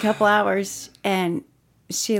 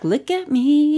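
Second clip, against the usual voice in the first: laughing mock pride; 7 semitones higher, 3 dB louder, slower than usual. Voicing the proud plant.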